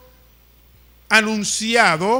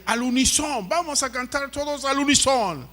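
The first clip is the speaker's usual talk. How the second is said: higher-pitched fervent call to the congregation; fervor imitado; 5 semitones higher than usual. Retold or imitated. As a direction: imitate a fervent song leader. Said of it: "con mucho fervor". (fervor de director de coro, imitado)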